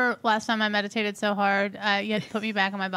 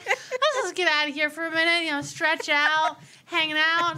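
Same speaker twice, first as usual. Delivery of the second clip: light giggly voice, pitched up; laughing higher self; 5 semitones higher than usual. Retold or imitated. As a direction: laugh through a carefree float. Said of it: "I'm like".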